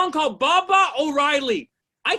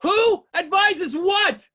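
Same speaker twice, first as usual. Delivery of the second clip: shouted across the street, drawn out; yelling out the door; 4 semitones higher, slower than usual. Retold or imitated. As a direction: yell it from the doorway at the partygoers. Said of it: "I yelled out".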